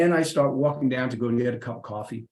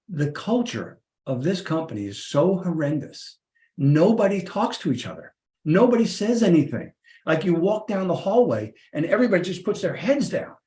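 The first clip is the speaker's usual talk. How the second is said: exasperated complaint; 5 semitones higher than usual. Retold or imitated. Complaining to wife about company.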